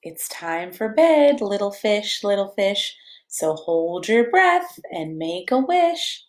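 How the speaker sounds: slow, gentle bedtime read-aloud; cozy storybook reading; reading to children. A narrator's reading. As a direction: lull a toddler toward sleep. Reads picture book to child.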